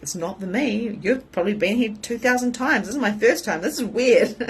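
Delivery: mock indignant; retold protest. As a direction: argue with mum, half laughing. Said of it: "I'm like".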